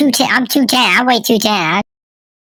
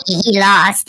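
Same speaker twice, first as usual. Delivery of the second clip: chipmunk voice; slower than usual. Real, not acted. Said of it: "You sound like a chipmunk".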